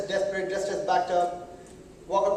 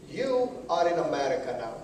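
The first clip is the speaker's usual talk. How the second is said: condescending clerk; 6 semitones lower, 3 dB quieter than usual. Retold or imitated. Receptionist lecturing the immigrant.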